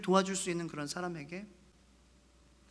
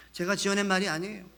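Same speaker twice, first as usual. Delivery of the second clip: ordinary talk, nothing marked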